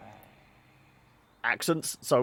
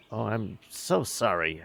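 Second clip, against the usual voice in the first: feigned sympathy. Acted. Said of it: "with a fainted, uh, feigned sympathy".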